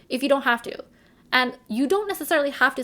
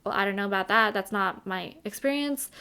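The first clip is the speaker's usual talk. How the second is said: calm answer; 3 semitones lower than usual. Retold or imitated. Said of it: "you just calmly answer and say".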